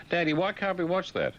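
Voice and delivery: put-on high child's voice; child's whine. A child asks dad about the TV, high whine. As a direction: whine like a little kid.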